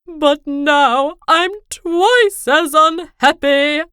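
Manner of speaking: king crying about being laughed at, slow wail. Acted. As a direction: wail it like a big baby. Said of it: "he wailed".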